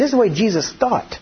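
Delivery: ordinary talk, nothing marked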